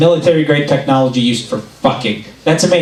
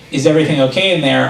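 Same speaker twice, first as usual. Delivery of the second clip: employee checking in; faster than usual. Retold or imitated. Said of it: "this employee went".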